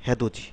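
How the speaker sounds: "হ্যাঁ দো জি" as one compact word; linked "হ্যাঁ দো জি"; word pronunciation, joined. Shown as a demonstration. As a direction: say "হ্যাঁ দো জি" with a j before the i, no separate t. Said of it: "কিরকম হবে".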